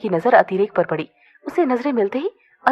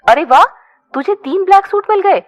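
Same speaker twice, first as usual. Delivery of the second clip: laughing; 10 semitones higher, 5 dB louder than usual. A narrator's reading. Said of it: "Kunal ने हंसते हुए कहा".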